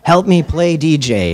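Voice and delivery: lightly gravelly, loud mock punk-singer voice; a hint of a punk singer's rasp, played for laughs; terrible impression of a singer. Mock punk-singer voice to his DJ friend at the jukebox. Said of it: "I'm doing a terrible impersonation of a singer".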